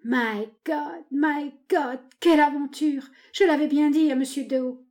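high-pitched marvelling; amazed exclaiming. A narrator's reading. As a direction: exclaim over the incredible turn of events. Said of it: "qui répétait".

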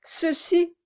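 high, quick, eager; lively. A narrator's reading. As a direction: jump in eagerly. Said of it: "dit monsieur Brass avec vivacité".

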